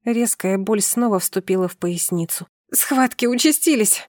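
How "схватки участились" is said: higher-pitched cry of alarm; urgent outcry. Acted. Wife in labour alerts her husband, urgent outcry. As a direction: announce the contractions in a rising panic.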